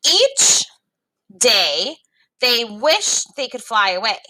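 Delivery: put-on lively read-aloud for young learners; story reading. A narrator's reading. Teacher reading a story to students, lively read-aloud.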